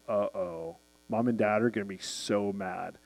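put-on quiet low uh-oh of a scared kid; worried teen. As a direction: mutter it like a kid who knows he's in trouble. Teen fears parents' anger.

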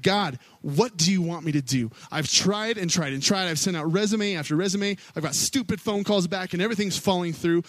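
angry yelling at God. Retold or imitated. Preacher retelling yelling at God on his bus in anger. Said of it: "I was yelling, and I was angry".

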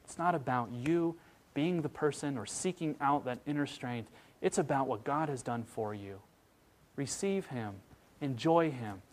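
gentle reassuring quote; tender. Retold or imitated. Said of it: "and just so tenderly says".

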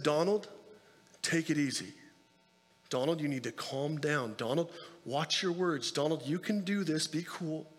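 put-on steady dad soothing a screaming child; low-key firm reassurance; stern but calm. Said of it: "this stern but calm voice".

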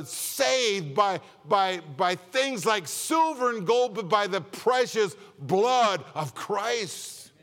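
fervent pulpit crescendo; full-force preaching. Acted. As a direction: preach it up to the climax. Preaching climax, loud and high.

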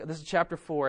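ordinary delivery

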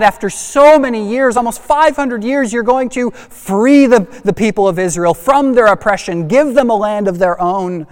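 ordinary talk, nothing marked

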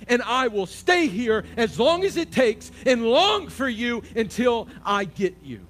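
high, loud, impassioned preaching cry; preaching at full force. Acted. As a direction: pour it out to God at the top of the voice. Preaching climax to the Lord.

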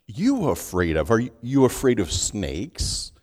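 ordinary talk

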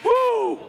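high, joyful "woo" of approval; excited whoop. Real, not acted. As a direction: whoop to fire up the crowd. Cheering congregation response.

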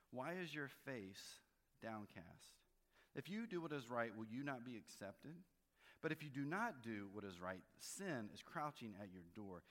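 measured Bible reading, lightly lifted; scripture reading. Acted. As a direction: read the verses out to the congregation. Reads scripture aloud.

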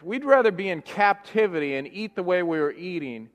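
gespeeld klagend, iets luider; mopperend volk. Retold or imitated. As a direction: zeur het als een verwend volk. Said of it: "They're going".

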